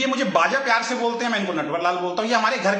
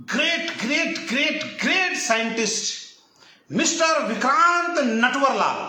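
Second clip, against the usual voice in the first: lightly hammed-up host introduction; a hint of an emcee calling the great scientist on stage; mock stage announcer; 2 semitones higher, slower than usual. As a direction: announce him like a grand stage guest, mockingly. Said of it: "कल को आप stage पे बुलाएं".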